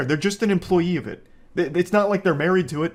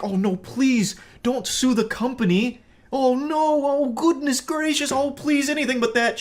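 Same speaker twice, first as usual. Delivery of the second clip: hammed-up pleading, pitched way up; groveling employee; 10 semitones higher than usual. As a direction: beg like a panicked clerk, voice jumping high. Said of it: "Start groveling like".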